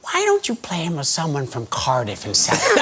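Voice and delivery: lightly voiced American director, imitated; Peter Falk. Director suggesting an easier accent to the actor, lightly imitated American. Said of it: "He went".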